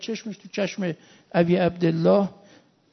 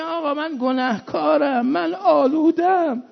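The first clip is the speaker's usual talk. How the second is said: higher-pitched plaintive preaching; impassioned preaching; 7 semitones higher, 3 dB louder than usual. Acted. Preacher voices a sinful youth confessing to his master, plaintive.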